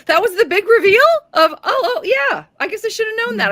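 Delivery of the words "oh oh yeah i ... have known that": high, airy shrug of a voice; imitating her breezy afterthought; mock offhand. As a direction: toss it off lightly. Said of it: "I think she said".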